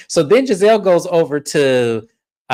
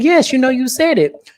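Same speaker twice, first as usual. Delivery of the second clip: high, insistent mock yes; mock exasperated chorus, higher; 11 semitones higher, 3 dB louder than usual. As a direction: press it pitched well up. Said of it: "And they said".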